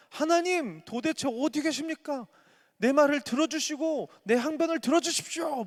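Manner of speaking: high, loud anguished plea; crying out to God. Acted. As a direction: call out to God in despair. Job cries out to God.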